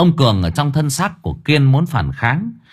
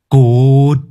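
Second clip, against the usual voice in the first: loud, sharp one-word snap; snapped; 2 semitones higher, 7 dB louder than usual. Acted. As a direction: cut him off. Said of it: "Kiên gắt". (gắt gỏng)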